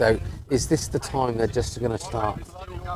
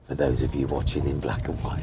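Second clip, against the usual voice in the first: Ted Lowe impression; 7 semitones lower, 4 dB quieter than usual. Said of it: "Even Whispering Ted Lowe".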